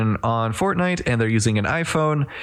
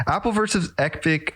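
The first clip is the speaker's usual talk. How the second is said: laughing through the words; 5 semitones higher than usual. Real, not acted. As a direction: repeat it, breaking into a laugh. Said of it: "I don't know what just possessed me".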